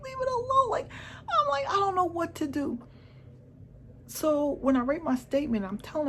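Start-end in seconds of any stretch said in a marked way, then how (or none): 0.0-2.8 high, tearful voice, torn over what to do; helpless high-pitched wail while retelling; distressed retelling. Retold or imitated. Retelling herself torn, near tears.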